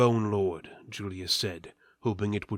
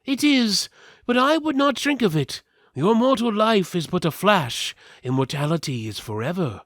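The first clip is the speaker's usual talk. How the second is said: raised pitch, louder, earnest and solemn; high voiced character; 5 semitones higher, 4 dB louder than usual. A speaker answering Julius, high and solemn. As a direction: lift the voice high for this solemn figure. Figure voice in read story.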